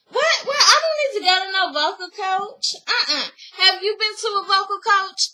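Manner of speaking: high, laughing outrage at the suggestion; indignant disbelief. Retold or imitated. Taj scoffs at Coco's vocal coach advice, laughing indignantly. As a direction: scoff it off like an insult.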